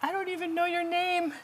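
lightly voiced weak old man; high, thin grateful caller. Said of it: "this weak voice".

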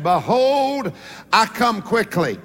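timid first try at a big verse; nervous preacher. Acted. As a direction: read it out waiting for an amen. Nervous young preacher reads scripture.

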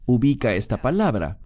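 ordinary talk

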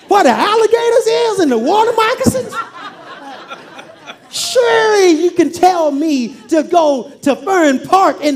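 hammed-up indignant Naaman, laughing through it; comic outraged rant.

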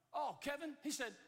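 high-pitched, lightly acted know-it-all reply; brusque custodian. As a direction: act a custodian cutting someone off. New custodian answers the swimmer.

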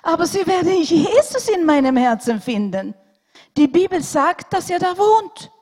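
put-on a small boy sure of his faith, insisting; boy insisting to the doctor that Jesus lives in his heart; insistent child. A narrator's reading.

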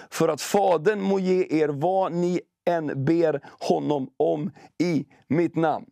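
slow solemn Bible reading; scripture reading. Acted. Preacher reads John fifteen to the congregation, slow and solemn. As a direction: read it slowly, each phrase weighed.

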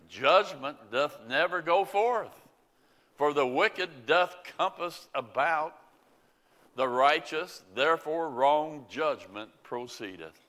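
solemn King James reading voice; scripture reading. Acted. Preacher reading Habakkuk to the congregation, solemnly. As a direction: read the prophet's complaint to the Lord with weight.

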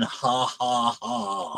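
soft sinister mocking chuckle; quiet gloating demon laugh. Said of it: "laughed in a mocking way".

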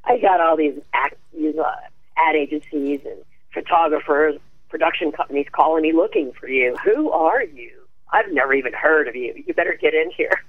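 a hint of a rough, gravelly older woman; grovelly rough voice. Agent Eileen Ford phoning Nancy, lightly voiced gruff and gravelly. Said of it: "She had this grovelly, rough voice like this".

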